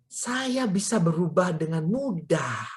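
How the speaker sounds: usual speaking voice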